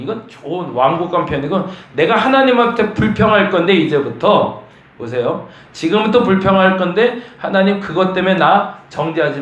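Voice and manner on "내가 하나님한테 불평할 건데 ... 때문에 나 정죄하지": higher, louder, half-laughing defiance; defiant complaint. Acted. Job telling God he will complain, defiant. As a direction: warn God before you complain.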